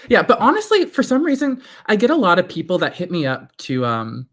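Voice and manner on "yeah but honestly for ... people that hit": laughing. Real, not acted. Laughing burst mid-chat.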